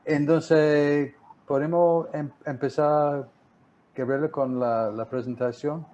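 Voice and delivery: Spanish with an American accent; American English speaker's Spanish; gringo accent spanish. Real, not acted. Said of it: "sigo hablando como gringo". (español con acento gringo)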